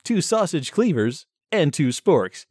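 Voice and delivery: lightly voiced shopping channel host; chummy on-air product banter; home shopping host.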